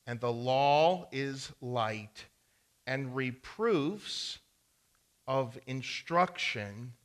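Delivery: slow, weighty Bible reading; scripture reading. Acted. Pastor reading Proverbs to the congregation, slow and solemn. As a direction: read each phrase slowly and with weight. Reads Proverbs aloud slowly.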